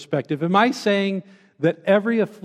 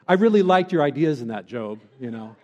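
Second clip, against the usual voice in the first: sarcastic. Retold or imitated. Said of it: "God sarcastically but very sternly".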